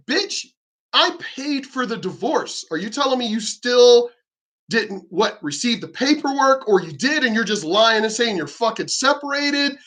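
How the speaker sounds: high, sharp challenge to his ex-wife; angry retort. Retold or imitated. Man confronting his ex-wife online, incredulous and angry. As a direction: call her out, incredulous.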